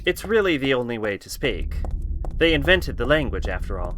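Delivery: put-on faint British accent with almost no twang; half-hearted British, not going for it; barely-there British accent; very light British accent. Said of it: "that was very light British".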